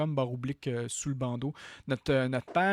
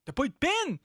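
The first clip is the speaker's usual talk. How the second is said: étonné; 11 semitones higher, 4 dB louder than usual. Real, not acted. Surprised he lacks the pin.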